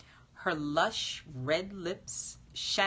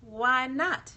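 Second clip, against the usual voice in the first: higher, louder why not; indignant surprise; 7 semitones higher, 5 dB louder than usual. Acted. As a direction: protest in disbelief. Kyle protests the refused wish.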